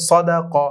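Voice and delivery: "সদা ক" with a thick, full স; thick Arabic letters. Shown as a demonstration. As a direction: say "সদা ক" with heavy স and ক. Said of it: "মোটা করে পড়তে হবে". ("সদা ক" মোটা করে উচ্চারণ)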